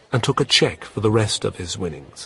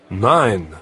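croupier calling out; 5 dB louder than usual. Acted. Croupier calls the winning total.

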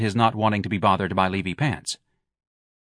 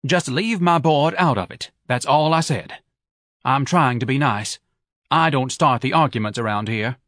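Mrs Levy's voice; 3 semitones higher than usual. Acted. Wife sniping at her husband who skipped the races. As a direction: needle him with every word.

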